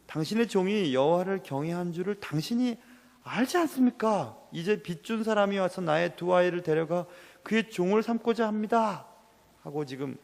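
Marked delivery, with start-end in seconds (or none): 0.1-9.1 a mildly raised, pleading widow's appeal to the prophet. Acted. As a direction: plead with Elisha, voice lifted and urgent. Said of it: "처절하게 울면서 하소연합니다". (엘리사에게 절박하게 호소하는 과부)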